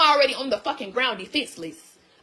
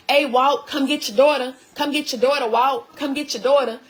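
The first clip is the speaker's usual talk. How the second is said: calling for dad; 3 semitones higher than usual. Retold or imitated. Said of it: "gonna go downstairs and say".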